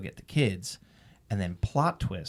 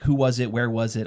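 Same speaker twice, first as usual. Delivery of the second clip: louder, rapid-fire retold questions; quick questioning; 2 semitones higher, 6 dB louder than usual. Wife questions husband after his confession, quick and pressing. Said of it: "Just really quick questions".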